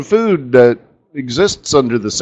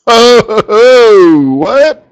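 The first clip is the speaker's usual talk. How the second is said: sudden high squeak of surprise; a sudden high-pitched "oh, what?"; startled surprise; 9 semitones higher, 6 dB louder than usual. Real, not acted. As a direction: jolt up high and loud, caught off guard. Surprised again at screen.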